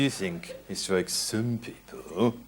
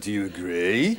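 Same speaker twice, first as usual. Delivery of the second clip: slight rising lilt on agree; 3 semitones lower than usual. Explaining question intonation, with a slight rise at the end on agree. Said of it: "our voice might go up a little bit at the end".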